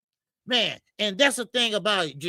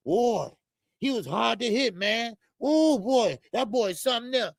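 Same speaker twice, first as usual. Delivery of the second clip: mock impressed fighter. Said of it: "the ring talking about".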